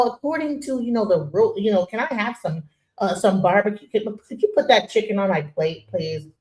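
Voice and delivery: mock the prim guest asking for chicken; proper voice. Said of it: "when we're at the barbecue, we're not like".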